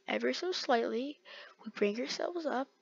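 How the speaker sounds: soft, hushed self-guidance; careful concentration. Real, not acted. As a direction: say it delicately, barely above quiet. Repeating the careful move.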